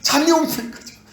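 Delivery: high, loud, indignant pleading; frantic disciples. Acted. Disciples clinging to sleeping Jesus, frantic high protest. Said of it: "확 붙들고 있는 거죠".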